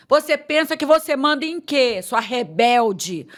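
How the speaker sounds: what God did not say, mock scolding; mock harsh scolding. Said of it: "Deus não falou pra mim".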